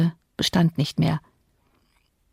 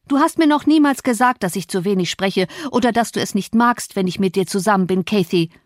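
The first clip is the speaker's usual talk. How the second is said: agitated outburst; 2 semitones higher than usual. Acted. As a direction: blurt it out in hurt agitation. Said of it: "rief er in großer Erregung".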